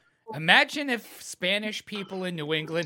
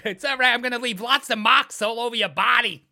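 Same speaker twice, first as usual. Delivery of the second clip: dominatrix voice; 5 semitones higher, 6 dB louder than usual. Pretend. Playing dominatrix.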